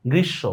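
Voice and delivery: গ্রীষ্ম as "grissho"; m not pronounced. Shown as a demonstration. Teacher gives an example, গ্রীষ্ম without its m. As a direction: double the sh in গ্রীষ্ম, no m. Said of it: "উচ্চারণ হচ্ছে না".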